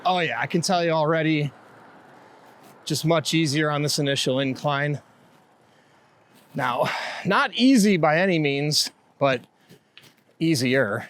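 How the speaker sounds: strained, working uphill; cycling hard. Real, not acted. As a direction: talk while pedaling hard. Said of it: "my legs are burning".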